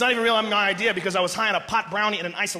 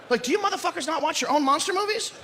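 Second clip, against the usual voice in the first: usual speaking voice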